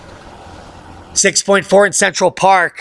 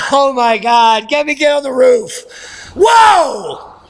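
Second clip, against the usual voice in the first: mock panic; 5 semitones higher, slower than usual. Comic panic at icy roads.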